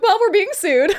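laughing as she delivers the bad news; a giggly, half-laughing punchline; laughing through it. Telling relatives about being sued, laughing.

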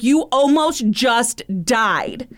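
slow, emphatic scolding; retold scolding, each word drawn out; mad dad. Daughter quoting her dad after a near crash, mad and slow. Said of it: "My dad was so mad at me".

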